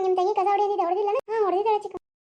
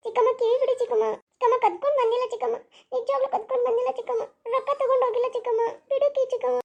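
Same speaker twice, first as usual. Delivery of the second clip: put-on pleading girl; 4 semitones higher than usual. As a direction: beg the aunt desperately, pitched up. Aunt pulls girl's ear.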